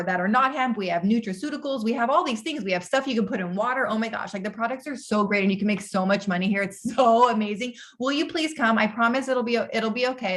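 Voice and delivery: mock a recruit who oversells with breathless hype; over-eager pitch. Shown as a demonstration. Coach imitating a too-pushy recruit message, hammed-up gushing. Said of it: "whisper, don't yell at people".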